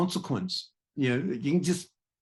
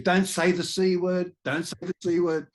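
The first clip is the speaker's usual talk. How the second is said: put-on higher, pleading child's voice, a touch louder; imitating little daughter; 8 semitones higher, 3 dB louder than usual. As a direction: mimic a little girl begging dad to stop.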